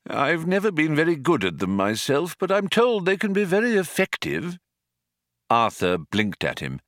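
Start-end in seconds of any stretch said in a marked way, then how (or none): 0.1-4.6 put-on high-pitched old man; an old man confiding, pitched high; old man, musing. A narrator's reading.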